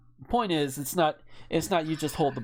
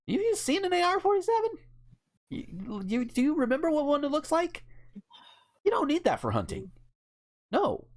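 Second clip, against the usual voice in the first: incredulous retort; 3 semitones higher than usual. Retold or imitated. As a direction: scoff at him, pitched well up. Retorting to a friend about hunting.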